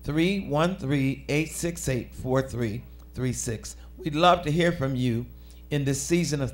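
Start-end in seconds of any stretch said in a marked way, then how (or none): 0.0-3.8 slow, measured phone number; slower. Real, not acted. Host giving viewers the call-in number, slowly. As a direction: give the digits slowly, tailing off softer. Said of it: "say it a little bit slower".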